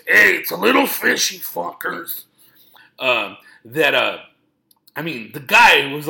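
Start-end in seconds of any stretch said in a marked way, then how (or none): 0.1-2.2 higher, louder comic impression; Mencia voice. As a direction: punch it out like a stand-up bit. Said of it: "in a Mencia voice".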